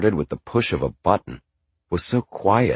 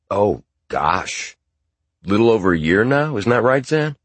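dad's voice; 4 semitones higher, 4 dB louder than usual. Acted. Dad answers, cheerful.

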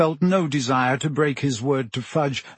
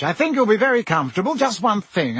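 jovial Minister voice; 7 semitones higher, faster than usual. A narrator's reading. Fudge voiced by narrator.

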